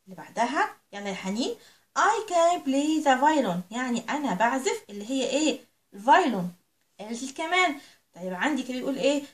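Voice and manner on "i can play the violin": put-on each word drawn out slowly for young learners; slow teaching read. Shown as a demonstration. Teacher reading English slowly to her little pupils. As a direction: read it slow and clear for the children.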